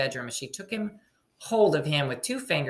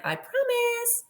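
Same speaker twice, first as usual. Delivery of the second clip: high, slow, sing-song false promise; insincere promise; slower than usual. Acted. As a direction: promise sweetly without meaning it. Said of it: "And she said again".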